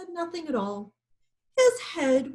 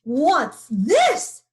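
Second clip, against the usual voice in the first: much louder, booming question; lion's roar; 3 semitones higher, 9 dB louder than usual. A narrator's reading. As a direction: roar it like a startled lion. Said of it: "he roared".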